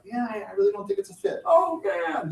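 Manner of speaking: imagined client saying no, mock dismay; mock letdown. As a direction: play the dreaded no for laughs. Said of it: "if they're like a no".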